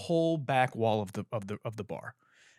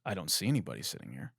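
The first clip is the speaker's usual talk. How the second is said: low, quick aside; muted private retort; retold inner thought; 10 semitones lower, 6 dB quieter, faster than usual. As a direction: think it to yourself, softer and lower. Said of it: "in my head".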